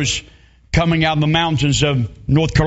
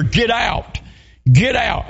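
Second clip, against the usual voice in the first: raised, urgent call to the neighbor; mock yell of get out; retold scream; 3 semitones higher, slower than usual. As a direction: neighbors shouting a warning at the house. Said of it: "They're screaming to the neighbor".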